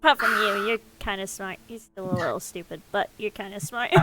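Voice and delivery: soft, low-pitched confidential murmur; whispered aside. Acted. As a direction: keep it between the two of you. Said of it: "just gonna whisper to Sidar".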